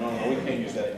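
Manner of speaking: laughing no, no; laughing refusal. Retold or imitated. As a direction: protest through laughter.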